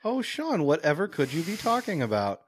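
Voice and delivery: high, coy feigned innocence; mock innocent. Co-host teases Sean, playing dumb in a high coy voice. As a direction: play dumb sweetly.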